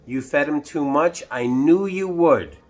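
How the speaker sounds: a hint of told-you-so; mild knowing Mister Carp. Mister Carp to the boy, mild knowing scold. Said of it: "said Mister Carp".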